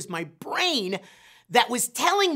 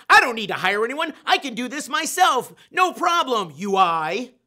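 cocky confidence; 3 semitones higher, 5 dB louder than usual. Retold or imitated. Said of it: "I'm like".

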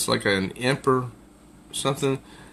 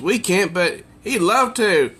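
teasing; 5 semitones higher than usual. Acted. Girl volunteers the demon.

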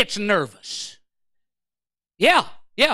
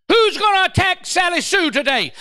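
devil boss calling roll; 6 semitones higher than usual. Acted. Devil's roll call acted out.

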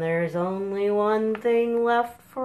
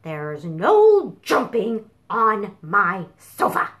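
louder, firm no-jumping; mild scolding; 7 dB louder than usual. Acted. Chicken Sofa scolds the cows, firm and louder. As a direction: stop them like a fussy chicken.

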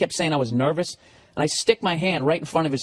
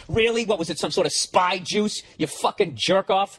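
put-on high, scornful jab at the drunk passenger; mock him for the spy juice line; sarcastic retort; 5 semitones higher than usual. Mocking the seatmate's excuse with scorn.

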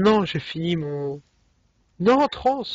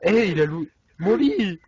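plus aigu, plus fort et lent; protester, outré et lent; indigné; 7 semitones higher, 5 dB louder, slower than usual. Real, not acted. Son lit pris par un autre. (indigné)

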